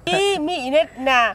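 slow, drawn-out sarcastic repeat; mocking echo. Real, not acted. Scoffing at her friend's claim, drawn out and sarcastic. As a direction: savour each word to ridicule her.

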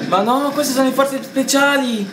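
high, loud, drawn-out exclamation; loud excited correction. Real, not acted. Correcting co-player on special forces, loud exclamation. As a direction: exclaim it high and slow, all out.

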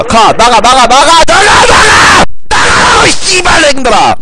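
orders climbing to a high yell; building frantic shouting. Real, not acted. Gamer ordering teammates out, building frantic shout. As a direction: build from urgent commands into high-pitched yelling.

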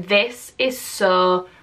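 slow, drawn-out inner voice; replaying how hard it felt, slowly; recalled struggling thought. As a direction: stretch it out, imitating remembered struggle. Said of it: "is thinking".

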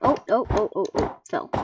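speaking through gritted teeth; clenched jaw, strained; grinding teeth. Real, not acted. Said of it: "sorry for gritting my teeth".

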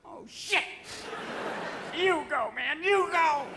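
high-pitched excited dog voice; sniffer dog. Acted. Anthrax dog finding white powder everywhere, high excited voice. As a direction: burst out high, like an overexcited dog. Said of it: "all the dogs looking for anthrax are going".

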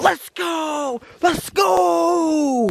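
high, rising call to the dog; excited shout. Real, not acted. Calling dog to move, shouting.

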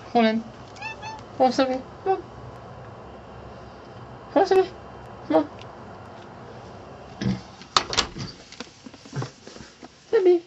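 high coaxing call; coaxing pet voice. Real, not acted. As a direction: coax the cat sweetly. Coaxing the cat to meow.

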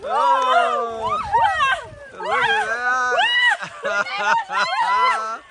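high, amazed exclaim. Real, not acted. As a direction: marvel at what you see. Amazed watching her.

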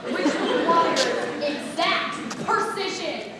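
slow, building to a loud "die"; deadpan doom, then slam it; mock dire warning. Stage manager warning the cast with mock doom. The speaker dramatising musical's stakes.

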